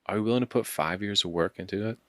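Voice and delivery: rising coach challenge; motivational speaker. Retold or imitated. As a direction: push the listener like a life coach. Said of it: "I start sounding like a motivational speaker".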